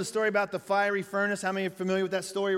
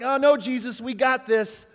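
mock overconfident refusal; 5 semitones higher, 6 dB louder than usual. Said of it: "Do you think they were like".

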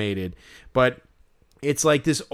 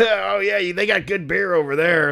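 lightly hammed-up, higher-pitched guide voice; tour guide impression; 4 semitones higher than usual. Fan mocks an unwanted beer-pointing tour guide, lightly hammed-up. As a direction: play an over-chummy tour guide, lightly mocking. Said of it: "this guy was probably like".

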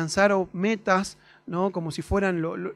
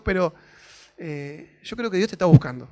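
earnest loud address; 6 dB louder than usual. Retold or imitated. Retelling what he told the stranger.

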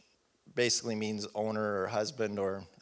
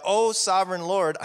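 loud and higher, a fearful outcry; cried out; 7 semitones higher, 5 dB louder than usual. Acted. Gideon crying out to God after seeing the angel, loud and higher. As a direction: cry out in sudden dread. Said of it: "he cried out".

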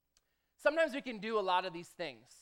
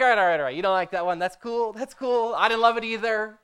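brushing it off; 11 dB louder than usual. Retold or imitated. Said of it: "And I'm like".

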